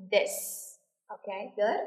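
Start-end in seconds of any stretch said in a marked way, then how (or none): 0.1-0.3 "This" with a clearly sounded S at the end; teacher's model of "This", voiced TH to S; clear final S. Shown as a demonstration. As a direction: finish "This" on an audible S. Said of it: "Nhớ là có âm S phía cuối".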